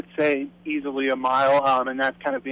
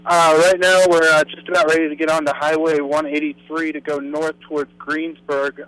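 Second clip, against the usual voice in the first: raised voice over wind noise; breathless shouting over wind; 5 dB louder than usual. Real, not acted. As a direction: call it in loud over the storm. Chaser calling in over wind.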